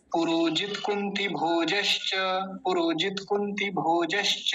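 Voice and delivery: पुरोजित कुंती भोजश्च linked as one word, measured; joined-up recitation. Shown as a demonstration. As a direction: model पुरोजित कुंती भोजश्च whole, stretching भो and the final च. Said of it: "तीनों को जोड़िए". (पुरोजित कुंती भोजश्च जोड़कर, साफ़ उच्चारण)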